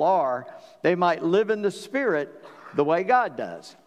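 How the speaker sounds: measured, even reading of scripture; preacher reading Bible verses aloud to the church, measured. Acted. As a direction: read the passage steadily to the congregation. Reads scripture passage aloud.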